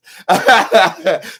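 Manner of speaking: loud, high burst of laughter; laughing. Real, not acted. Tickled by the hotel girl's accent, laughing. Laughing at her retold reaction.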